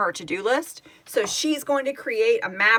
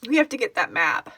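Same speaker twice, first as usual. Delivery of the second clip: usual speaking voice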